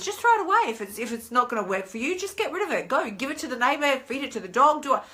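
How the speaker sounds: inner voice of the heart. Acted. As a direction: plead lightly like a nagging conscience. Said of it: "Your heart says".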